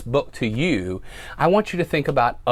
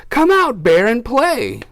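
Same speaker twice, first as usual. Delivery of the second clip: higher, louder playful call; friends calling Bear; 10 semitones higher, 6 dB louder, slower than usual. Acted. Friends call Bear to come out and play, higher and louder. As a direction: coax him out to play. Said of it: "his friend gather round".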